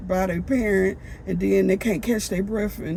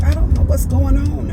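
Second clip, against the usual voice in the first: higher, pleading and lost; emotional, bewildered; 8 semitones higher, 6 dB louder than usual. Retold or imitated. Overcome woman telling her friends she's confused, high and pleading. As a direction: voice lifted with confusion. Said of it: "I got so emotional".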